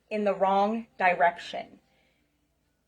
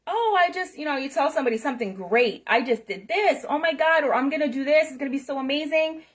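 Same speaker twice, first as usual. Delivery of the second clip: higher, fast, hammed-up gushing; mock excited gushing; 4 semitones higher, faster than usual. Mocking a friend who brags about big plans, higher and gushing. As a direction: gush like a friend bragging about a plan.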